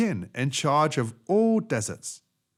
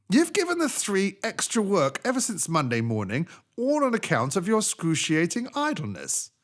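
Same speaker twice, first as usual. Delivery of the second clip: djinn scolding; 8 semitones higher than usual. Acted.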